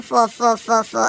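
deliberate stammer on four; stuck repeating the word. Acted. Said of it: "I'm gonna be stammering".

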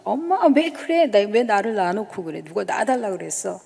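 imitating a girl shouting at her mother; retold shouting. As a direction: yell back at mother from across the room, partly replayed. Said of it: "제가 소리소리 질러서 엄마한테 그런 거예요".

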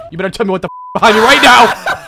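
high, loud insistent yell; shouted demand. Real, not acted. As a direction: holler it urgently at a teammate.

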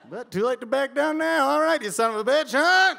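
high, loud brawler's goading; acted-out street-fight bluster; mock angry taunting. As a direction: goad him, building to a shout.

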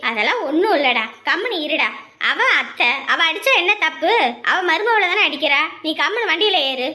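loud, firm telling-off; scolding. Acted. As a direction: shut the argument down forcefully. Scolds brother to silence him.

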